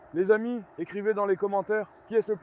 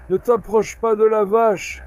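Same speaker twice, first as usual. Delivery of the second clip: louder warning to the dog off the cow; 7 dB louder than usual. Real, not acted. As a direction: warn it away, loud. Warning the animal off. (avertissement fort au chien)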